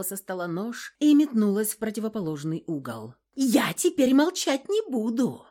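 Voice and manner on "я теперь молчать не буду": high, loud furious yell; cornered woman yells in fury. Acted. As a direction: scream it with the knife out. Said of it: "заорала она".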